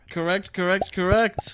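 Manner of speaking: whispered, repetitive confirmation; hushed, ticking whisper; mock ASMR. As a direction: play along in a soft whisper. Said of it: "sound like A S M R".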